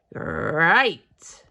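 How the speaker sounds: loud happy exclaim; delighted. Acted. Little Bear cheers at fish and ice cream. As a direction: burst out pleased.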